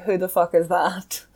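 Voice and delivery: hushed mock whisper. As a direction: breathe it out under your breath. Retold own reaction, whispered.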